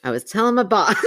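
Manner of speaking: giggly retry, barely holding; after laughing hard. Real, not acted. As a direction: try to read, laughter breaking.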